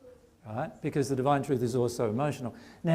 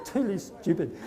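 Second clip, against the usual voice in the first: mocking, sneering tone, a little higher; condescending; 5 semitones higher than usual. Spirit scorning emotional people, condescending sneer. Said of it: "with that condescension as well".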